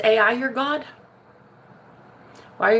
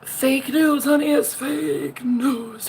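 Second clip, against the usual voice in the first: mock denial; 5 semitones higher, much slower than usual. Denying rumour theatrically.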